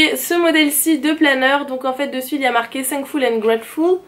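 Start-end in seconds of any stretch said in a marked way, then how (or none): 2.8-4.0 English title read in a strong French accent; self-mocking French accent on English. Real, not acted. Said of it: "Merci pour mon accent anglais".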